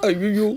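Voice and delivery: short crying ouch; pained cry. Acted. Slapped boyfriend cries out in pain. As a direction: yelp like the slap really hurt.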